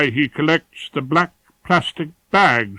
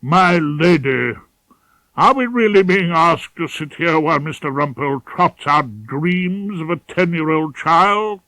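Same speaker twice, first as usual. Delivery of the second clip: a barrister booming his objection at the judge; 4 semitones higher, 5 dB louder than usual. Acted. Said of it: "Cut Above boomed".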